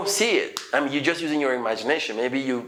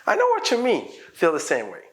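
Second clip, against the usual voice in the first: smiling, friendly; 4 semitones higher than usual. Shown as a demonstration. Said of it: "keep smiley face and be friendly".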